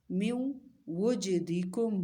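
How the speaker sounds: من وجدکم slow with nasal hold on the ن; nasal merge demo. Shown as a demonstration. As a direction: hum the ن into و. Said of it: "ناک میں آواز لے جا کے ٹھہرا رہے ہیں". (گنگنی آواز میں)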